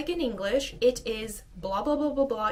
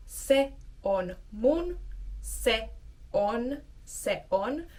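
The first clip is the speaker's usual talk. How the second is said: slow, careful practice pace; deliberate drill speed; slower than usual. Shown as a demonstration. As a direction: say each word slowly and clearly. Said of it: "first practice the pronunciation".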